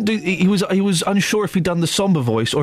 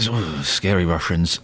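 scary Russians; 9 semitones lower, slower than usual. Acted. Mock Russian menace.

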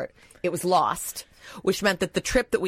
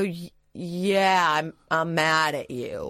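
retold seething reply; much slower than usual. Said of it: "I go".

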